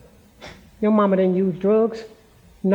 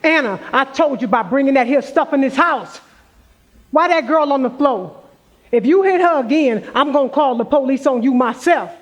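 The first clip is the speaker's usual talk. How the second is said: stern scolding; 5 semitones higher than usual. Acted. Grandmother warning her daughter off hitting the girl, stern raised scolding. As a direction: put your foot down and threaten to call the police.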